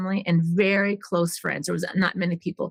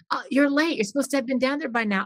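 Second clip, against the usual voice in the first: imitating bossy sister; 5 semitones higher, faster than usual. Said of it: "'cause she was saying".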